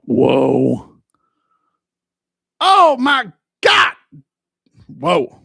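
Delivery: low, loud, slow demonic rumble. Acted. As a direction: growl like a hammed-up demon. Spooky character voices.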